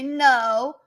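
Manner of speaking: drawn-out American "no"; American accent. Shown as a demonstration. Streamer mimicking how they say no, American accent. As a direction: stretch "no" in an attempted American accent. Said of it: "whenever I try and do an American accent".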